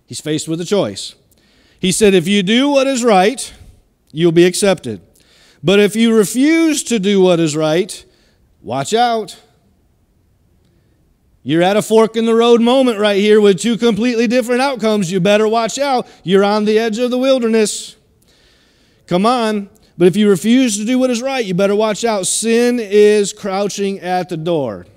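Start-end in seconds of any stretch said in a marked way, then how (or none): 2.1-9.4 voicing God. God's warning to Cain. 11.4-22.3 preaching. Acted. Preaching builds to warning.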